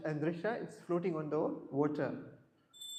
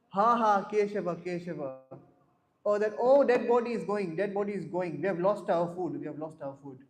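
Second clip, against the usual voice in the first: louder hammed-up wail of the hungry wolves; mock wolf wail; 6 dB louder than usual. Teacher voices the wolves to the class, hammed-up wail. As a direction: wail like wolves losing their dinner. Wolves lament losing their food.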